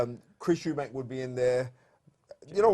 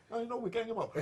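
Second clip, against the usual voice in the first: laughing; 9 semitones higher, 5 dB quieter, faster than usual. Pretend. Playful banter, laughing.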